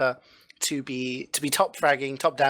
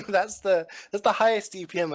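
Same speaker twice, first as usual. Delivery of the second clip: laughing; 4 semitones higher than usual. Real, not acted. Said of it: "trying not to laugh here".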